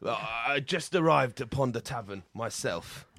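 mock medieval tavern gent; a lightly hammed olde English greeting; hammy stage actor. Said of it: "ye olde lad chat".

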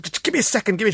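high, strained mock plea; straining plea. Lifting the woman into the car, a high strained plea. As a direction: squeak it out while struggling to lift her.

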